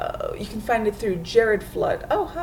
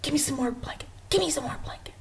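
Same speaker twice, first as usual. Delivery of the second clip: hushed, higher-pitched bedtime plea; mock pleading; 5 semitones higher, 6 dB quieter, faster than usual. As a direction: imitate begging for covers under your breath. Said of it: "I'm always like".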